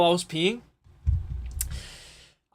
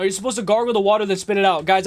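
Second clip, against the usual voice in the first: normal talking voice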